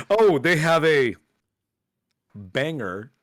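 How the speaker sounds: lightly voiced old geezer, slow; old man voice. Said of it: "I like to do the old man voice on it".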